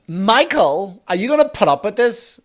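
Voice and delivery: a wife demanding her husband step in; high indignant wife calling her husband; outraged wife. Retold or imitated.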